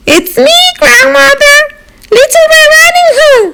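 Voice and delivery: put-on high calling little girl. Girl calls to grandmother through the door, high. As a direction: call in through the open door.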